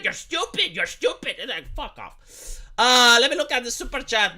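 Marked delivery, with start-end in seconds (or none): 0.0-1.4 mock insult. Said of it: "It's like".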